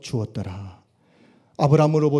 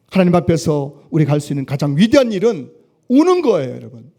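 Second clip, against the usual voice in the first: emphatic declaration; 6 dB louder than usual. Acted. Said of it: "phrase repeated at 63".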